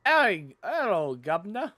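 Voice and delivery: a cheeky put-on British greeting; mock British accent. Gamer greeting a game character in mock British accent. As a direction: tip the hat in a jokey British accent. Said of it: "you know I had to say, "Hello, governor".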